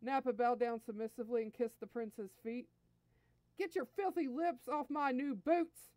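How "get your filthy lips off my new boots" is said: slow, loud, higher-pitched disgust; haughty prince, drawing out the command; angry sneer. A narrator's reading. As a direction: order him off with contempt. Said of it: "Vegeta sneered".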